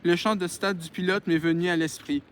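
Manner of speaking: measured read-aloud voice; story narration. Acted. Reads a novel aloud.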